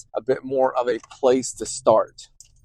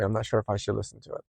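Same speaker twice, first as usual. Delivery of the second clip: quiet doubtful voice; 3 semitones lower, 8 dB quieter, much faster than usual. Retold or imitated. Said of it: "so quiet".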